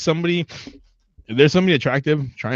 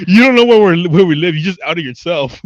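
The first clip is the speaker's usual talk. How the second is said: mock cartel threat; 4 semitones higher, 6 dB louder than usual. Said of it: "He's like".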